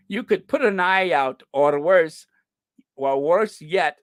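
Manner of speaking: put-on amateur, emphatic Scottish accent; halting try at Scottish. Host struggling through the joke, Scottish accent. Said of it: "trying to do a Scottish accent".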